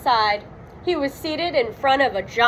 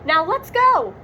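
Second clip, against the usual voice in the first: yell; 10 semitones higher than usual. Acted. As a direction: hurry Scooby along. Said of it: "Shaggy yelled".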